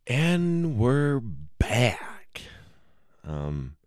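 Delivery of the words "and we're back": whispered very slowly, drawn out; mock return whisper. Comic back from the bathroom break, whispered and drawn out. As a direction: breathe it like a hushed host coming back.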